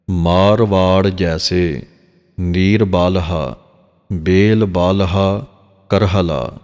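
slow, drawn-out chant of the verse; slow scripture recitation. Shown as a demonstration. Granthi demonstrating Gurbani pronunciation to the congregation: slow recitation. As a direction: recite each word slowly and carefully. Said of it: "ਜਿਵੇਂ ਦਾਸ ਨੇ ਪੜ੍ਹ ਕੇ ਸੁਣਾਇਆ ਹੈ".

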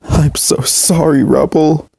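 tearful apology, voice high and slow; sobbing. Acted. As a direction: sob it out, pleading. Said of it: "continued to sob".

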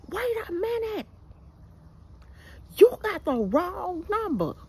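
mock the man stopping her rant; imitating the man. Man on phone correcting her.

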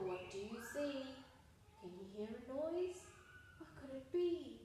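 suspenseful storytime voice; sing-song jungle story read-aloud; reading to children. Acted. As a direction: build mystery for the kids.

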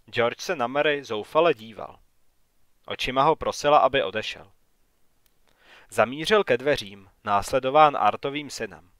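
plain reading voice

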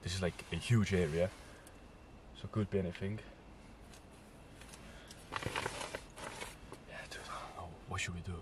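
hushed, uneasy half-whisper; nervous night vlog whisper. Real, not acted. Retelling scratching noises, hushed at night.

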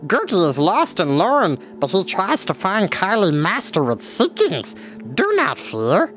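high creature voice, trying to reassure; reassuring creature. Acted. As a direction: comfort him while lost. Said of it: "he added reassuringly".

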